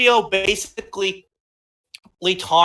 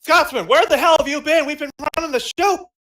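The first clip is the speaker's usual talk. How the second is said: raised, higher scolding; mock angry; 6 semitones higher, 3 dB louder, faster than usual. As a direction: scold him, half joking. Host scolds the latecomer.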